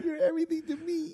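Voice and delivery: high, soft, crying imitation; mock tearful echo. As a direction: whimper it back in mock tears. Host mocks the tearful proposal.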